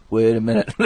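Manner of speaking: breathy whisper, stopping short; whispered aside. Acted. Catching himself mid-story, a whispered wait a minute. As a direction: hush it like a sudden catch. Retold realization, self-correcting aside.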